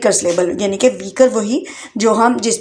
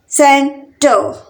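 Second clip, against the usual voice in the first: सेंटर very slowly in two separate beats; long pause between सेन and टर; split into syllables; 3 semitones higher, much slower than usual. Shown as a demonstration. Teacher counting out two syllables for learners, syllable by syllable. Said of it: "सेंटर में भी two syllable".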